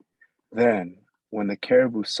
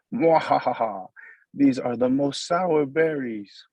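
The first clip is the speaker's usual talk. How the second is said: slow gloating villain laugh; sneering panto villain; 4 semitones higher, slower than usual. Acted. Gloating over the sour berries.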